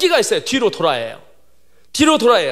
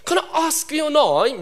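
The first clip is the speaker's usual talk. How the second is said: lightly imitated British English teacher; slightly higher, slow mock British question; a hint of British accent; 4 semitones higher, much slower than usual. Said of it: "그 영국인이에요".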